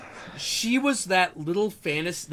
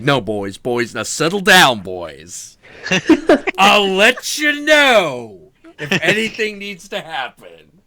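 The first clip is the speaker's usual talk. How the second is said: put-on calming the boys; 6 dB louder than usual. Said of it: "He's like".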